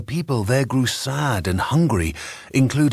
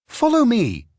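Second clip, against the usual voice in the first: high commanding call; order; 11 semitones higher than usual. A narrator's reading. Apprentice commands the broom, commanding. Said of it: "he ordered".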